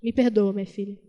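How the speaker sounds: put-on a touch of a weeping old father begging forgiveness; tearful father. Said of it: "Chorando, chorando".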